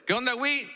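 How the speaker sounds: "Wit" dicho con silbido suave; saludo con silbidito. Retold or imitated. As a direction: silba un poco el "Wit". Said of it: "el silbidito". ("¿Qué onda, Wit?" con silbidito)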